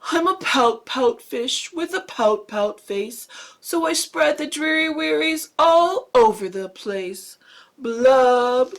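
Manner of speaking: a lightly voiced glum fish, chanting his refrain; gloomy pout fish. Teacher reads the fish's gloomy refrain in a light voice. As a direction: droop through the refrain like a sulky fish.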